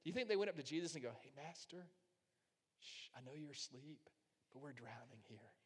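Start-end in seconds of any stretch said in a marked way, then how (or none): 1.1-4.1 softly trying not to wake him; mock-polite hushed appeal; timid, hushed request. Disciples gently approaching their sleeping master, hushed. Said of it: "They didn't do that". 4.5-5.5 very soft, understated mock plea; hushed, polite plea. Disciples to sleeping Jesus about drowning, timid and hushed. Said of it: "I don't wanna wake you".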